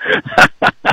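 giggling through the words; laughing excitedly. Real, not acted. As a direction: laugh while calling the shot. Laughing at the great shot.

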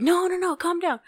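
high, lightly voiced soothing; imitated reassurance. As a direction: gently hush someone who is panicking. Girlfriend soothes her in retelling.

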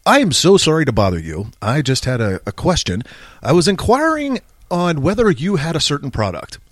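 mock-scholarly, over-polite phone enquiry; put-on intellectual. Shown as a demonstration. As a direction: enunciate with lightly affected learned formality. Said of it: "I can sound very intellectual".

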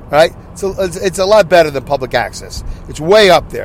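normal talking voice

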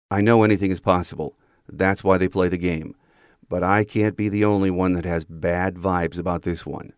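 ordinary talk, nothing marked

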